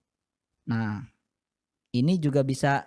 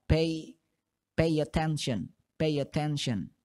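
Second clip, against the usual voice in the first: fast; 3 semitones higher than usual. Shown as a demonstration. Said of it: "kalian ucapkan dengan cepat".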